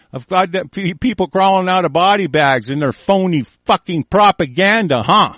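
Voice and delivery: real rising rage; angry shouting. Real, not acted. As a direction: rail against them at full steam. Escalating on-air rant.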